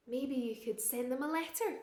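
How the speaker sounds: ordinary delivery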